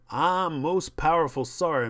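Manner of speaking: hammed-up grovelling servant line; exaggerated servile apology; servile stereotype. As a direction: recite a demeaning scripted apology. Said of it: "do this step and fetch it stuff".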